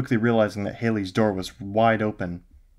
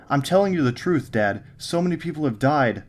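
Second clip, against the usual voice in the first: higher, louder pleading on the edge of crying; near tears; 6 semitones higher, 3 dB louder than usual. A narrator's reading. Son to father on the phone, close to crying. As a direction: beg him with a cracking voice. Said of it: "beginning to cry".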